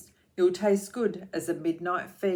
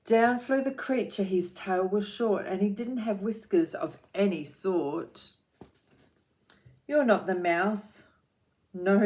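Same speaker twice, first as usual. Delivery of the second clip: put-on rhythmic read-aloud for children; lilting picture-book reading; story narration; 4 dB louder than usual.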